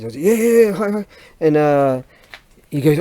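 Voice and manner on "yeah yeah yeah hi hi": higher, louder Japanese-style agreement; eager string of Japanese yeses; mock Japanese reply. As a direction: play at answering in Japanese. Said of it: "in Japanese".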